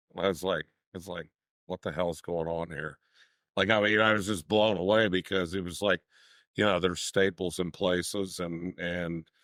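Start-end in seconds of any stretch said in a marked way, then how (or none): none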